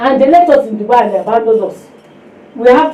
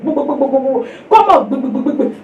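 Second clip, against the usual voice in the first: mock plane rumble. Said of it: "The plane will go down".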